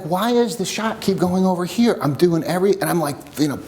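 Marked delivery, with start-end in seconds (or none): 0.0-2.0 raised pitch, mild exasperated complaint; retold pissed-off griping. Shooter fuming in his own head, mildly pissed off retelling. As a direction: gripe to yourself, a touch higher. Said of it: "pissed off".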